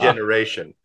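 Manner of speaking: imitated German-accented statesman voice; imitating Kissinger's German accent; thick Henry Kissinger accent. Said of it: "he said in that thick accent".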